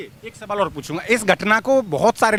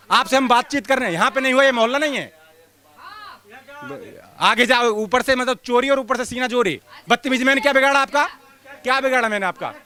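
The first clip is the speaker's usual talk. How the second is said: real indignation, pitched up at normal volume; indignant protest; 3 semitones higher than usual. Real, not acted. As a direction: protest in insistent, raised-pitch questions. Reporter arguing after being rebuffed. (नाराज़गी भरा विरोध, ऊँचे सुर में)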